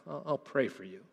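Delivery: casual, offhand and quiet; cheapened promise. Shown as a demonstration. Preacher mimicking a cheapened promise to pray, offhand. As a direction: toss it off as a token promise. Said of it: "we cheapen that".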